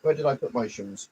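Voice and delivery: usual speaking voice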